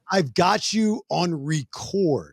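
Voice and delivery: put-on slow, drawn-out Canadian accent. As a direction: mimic a Canadian bystander slowly. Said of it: "his buddy in his Canadian accent".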